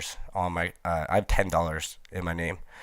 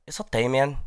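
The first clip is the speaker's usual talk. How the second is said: imitating the boy again; 5 semitones higher than usual. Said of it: "How did he say it?".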